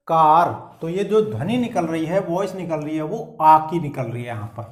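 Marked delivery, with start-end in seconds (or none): 0.1-0.7 कार said loud with a long aa; emphatic demo word. Shown as a demonstration. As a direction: stress कार clearly. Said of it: "के में आ जुड़ करके".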